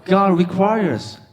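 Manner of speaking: drawn out, every word stretched; slow reading aloud. Shown as a demonstration. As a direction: read scripture aloud slowly. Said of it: "말씀 같이 한번 읽어볼게요". (천천히 또박또박 성경 낭독)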